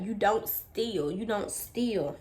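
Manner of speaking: slow, spaced-out admonishment; stern lecture. Retold or imitated. Store lady lectures young thief, slow and stern. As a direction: say it slowly to drive it home.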